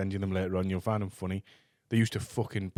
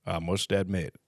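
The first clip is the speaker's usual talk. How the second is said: southern gentleman voice; 6 semitones lower, 4 dB quieter than usual. Acted. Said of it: "You sound like a southern gentleman".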